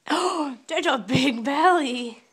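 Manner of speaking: playful gasp then bright exclaim; mock surprise. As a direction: fake amazement for a toddler. Mock gasp at child's belly.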